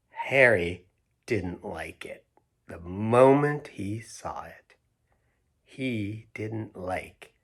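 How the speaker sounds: slow, expressive picture-book reading; reading to children. A narrator's reading. Reading the story to Hazel and Pearl, slow and expressive. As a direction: read it like bedtime storytime for kids.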